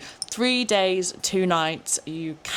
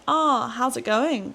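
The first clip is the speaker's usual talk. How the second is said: higher, slow put-on Aussie "how's it going"; drawn-out cheery Aussie shop greeting; trying an Aussie greeting; 6 semitones higher, slower than usual. At a shop, attempting a put-on Aussie greeting. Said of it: "I try to say".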